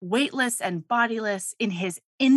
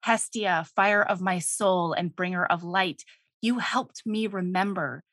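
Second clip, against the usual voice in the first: tender god voice; 4 semitones lower, 3 dB quieter than usual. Retold or imitated. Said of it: "And he says".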